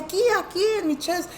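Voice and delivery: high-pitched imitated kid's whine; hurt child. Boy showing parent where it hurts, imitated whine. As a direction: mimic an upset little boy.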